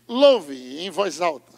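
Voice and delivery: slow loud urging; loud command. Shown as a demonstration. Preacher voicing God's command, slow and loud. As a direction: stretch it out, proclaim it. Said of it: "Deus diz".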